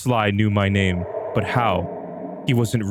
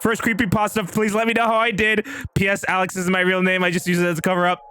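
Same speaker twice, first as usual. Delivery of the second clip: much higher voice for the writer's note; higher, lightly voiced author's note; 10 semitones higher than usual. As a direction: switch voice to read the author's note.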